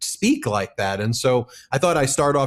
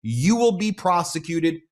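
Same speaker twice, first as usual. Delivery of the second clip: higher-pitched, emphatic paraphrase of a sheriff's warning; quoting a sheriff's warning; 4 semitones higher than usual. Retold or imitated. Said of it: "And here she says".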